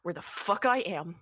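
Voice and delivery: rising panicky threat; terrified threat. Acted. Atticus holding a knife to Henry's throat, lightly voiced panicky threat. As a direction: threaten while scared. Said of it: "she goes".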